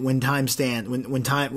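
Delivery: stumbling, repeating words; stuttering. Real, not acted. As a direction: trip over the words, restart twice. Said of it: "y'all know I'm stuttering a little bit today".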